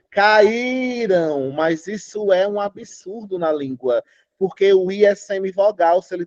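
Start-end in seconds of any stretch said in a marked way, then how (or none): 0.1-1.5 caíram with the stress on the í. Shown as a demonstration. Teacher stressing the í in caíram. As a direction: lean on the í of caíram. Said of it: "Aí eu digo".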